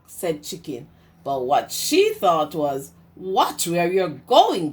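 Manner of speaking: lively storybook read-aloud; reading to children. A narrator's reading. Teacher reading Duck on a Bike to her class, lively storytime voice.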